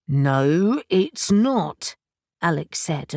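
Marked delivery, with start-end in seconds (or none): 0.1-2.0 annoyed. A narrator's reading.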